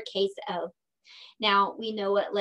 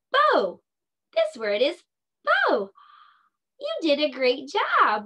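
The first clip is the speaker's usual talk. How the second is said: excited; 5 semitones higher, 4 dB louder than usual. Real, not acted. Teacher cheering word found.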